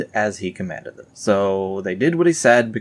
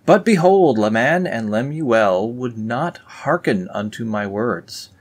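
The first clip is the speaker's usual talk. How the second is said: scripture reading; 3 semitones higher than usual. Acted. Reading the Book of Nephi aloud to viewers, solemn. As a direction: proclaim it like old scripture.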